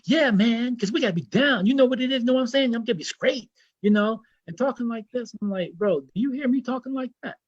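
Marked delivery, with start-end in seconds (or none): 0.0-5.3 higher, swaggering mock American slang; put-on American accent. Egyptian brother defending how he talks, put-on American accent. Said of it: "This is my American accent". 5.7-7.4 indignant challenge. Retold or imitated. Retold challenge to the brother.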